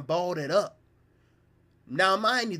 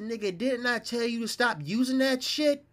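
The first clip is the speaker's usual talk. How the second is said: higher mock scolding; scolding brother; 7 semitones higher than usual. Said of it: "he said".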